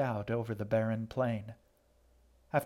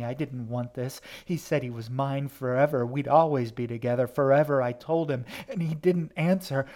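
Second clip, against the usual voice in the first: anguished shriek; 3 semitones higher, 6 dB louder than usual. Acted. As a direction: shriek it out like a heartbroken spirit. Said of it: "a voice shrieked out from within".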